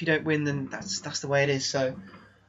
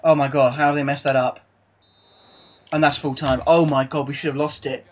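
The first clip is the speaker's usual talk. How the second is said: louder, exasperated outcry; stunned disbelief; 6 dB louder than usual. Real, not acted. Manager reacting to a late goal, loud disbelief. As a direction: cry out in disbelief at the collapse.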